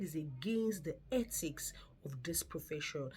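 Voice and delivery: hushed, breathy whisper; whispered warning. Retold or imitated. Nurse warning a new carer in the staff room, whispered. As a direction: whisper it like a secret rule.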